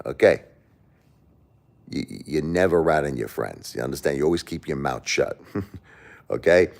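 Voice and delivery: lightly acted mob mentor; a hint of De Niro schooling a kid; Robert De Niro. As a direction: give gangster advice like a movie wise guy. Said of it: "do your best Robert De Niro impression".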